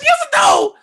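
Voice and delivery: very high, loud demand; demanding shout. Retold or imitated. Comic demanding the supervisor answer, very high shout. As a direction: force a yes or no.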